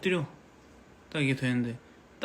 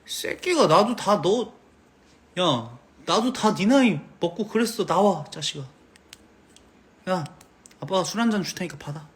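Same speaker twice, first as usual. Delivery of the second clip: gruff dad; 4 semitones higher, 3 dB louder than usual. Pretend. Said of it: "이러면".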